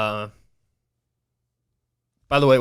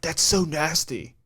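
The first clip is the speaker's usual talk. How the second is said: slow, dragged-out bro voice imitating a friend; dude voice; 4 semitones higher, slower than usual. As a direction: lightly voice the dude's disgust, slowly. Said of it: "it must have been a dude if I'm talking like that".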